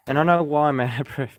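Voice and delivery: a short laugh breaking into the words. Real, not acted. Amused at himself, explaining to viewers, with a laugh. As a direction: chuckle through it, amused at yourself. Laughs at his own breathlessness.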